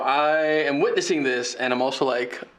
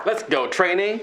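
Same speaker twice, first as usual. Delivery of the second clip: excited cheer; 7 semitones higher than usual. Real, not acted. Cheering on a dice roll.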